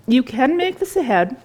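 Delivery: talking through a mouthful; words round a bite of food; mouth full. Real, not acted. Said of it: "Sorry for talking with my mouth full".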